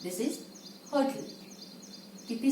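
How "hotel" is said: hotel as a quick 'ho-tl', second vowel swallowed; pronunciation model. Shown as a demonstration. Teacher answering how it is pronounced, modelled pronunciation. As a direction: say hotel short, ending in a light 'tl'. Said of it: "How is it pronounced?".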